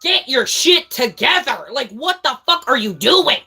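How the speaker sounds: high, slow, punched-out scolding of a teammate; retold exasperated yell, each word stretched out; mad gamer rant. Streamer re-enacts berating her zombies teammate, mad and commanding. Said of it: "would always make me so fucking mad".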